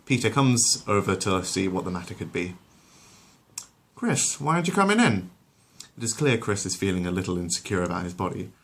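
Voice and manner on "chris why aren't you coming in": higher calling dad voice. Acted. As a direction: call over to the glum son. Peter calls to his son.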